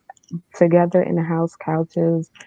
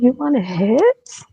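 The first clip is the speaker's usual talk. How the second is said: higher, louder, slow defiant challenge; 6 semitones higher, 4 dB louder, slower than usual. Retold or imitated. To the boyfriend who punched her, a slow loud defiant dare. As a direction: throw it back at him, daring him. Confronting him after the punch.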